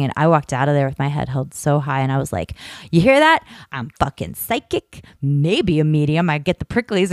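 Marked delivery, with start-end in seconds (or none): 2.9-6.3 proud show-off shout then smug; triumphant boast. Retold or imitated. Triumphant strut out of church.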